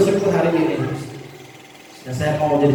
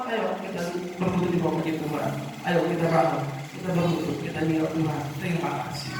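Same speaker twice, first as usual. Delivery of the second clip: much softer, hushed invitation to pray; humble prayer; 10 dB quieter than usual. Acted. Preacher leading congregation to kneel in prayer, hushed.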